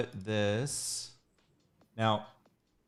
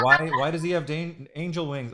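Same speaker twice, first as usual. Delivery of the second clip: incredulous; 6 semitones higher, 9 dB louder than usual. Retold or imitated. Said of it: "People are like".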